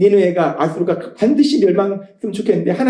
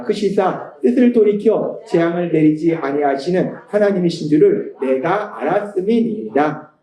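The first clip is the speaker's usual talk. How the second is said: unison scripture reading; 4 semitones lower than usual. Acted. Congregation reads scripture together.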